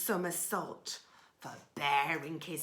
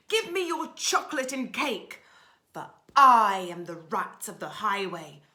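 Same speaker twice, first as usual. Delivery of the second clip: loud, booming highway rat; bellowing robber rat, fading to a whisper at the end; rat's bold cry; 12 dB louder than usual. Acted. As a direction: roar it like a greedy bandit rat. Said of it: "who cried out".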